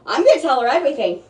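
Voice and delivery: fast burst with a pitch jump on "gonna"; quick, emphatic. Real, not acted. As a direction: rattle it off, leaping up on "gonna". Repeats the same promise more deliberately.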